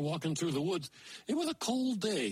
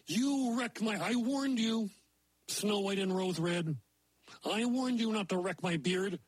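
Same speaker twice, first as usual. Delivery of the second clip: higher, indignant dwarf scolding; furious dwarf; 3 semitones higher than usual. Acted. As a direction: angrily warn the girls. Dwarf furious at cut beard.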